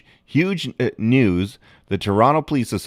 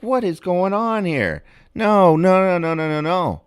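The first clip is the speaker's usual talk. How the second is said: mock bewildered protest; 9 semitones higher than usual. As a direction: play baffled and refuse it. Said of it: "I was kinda like".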